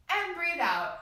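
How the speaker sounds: slow release on out; guided breathing cue. Shown as a demonstration. Teacher leading children in deep breaths, slow exhale. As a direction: let the words ride the exhale. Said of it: "Let's take three big deep breaths".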